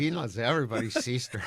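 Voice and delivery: quick cartoon Mexican accent; playful mock-Mexican cartoon voice; Speedy Gonzalez. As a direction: toss it off fast in a joking Mexican accent. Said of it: "What's to not like about Speedy Gonzalez?".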